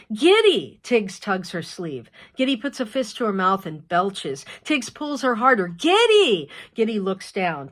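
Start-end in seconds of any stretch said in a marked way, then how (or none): 0.1-0.8 put-on high, loud little girl's call; child calling. Little girl tugging her sister's sleeve, loud insistent call. 5.7-6.5 put-on high, loud little girl's call; child calling. Little girl tugging her sister's sleeve, loud insistent call.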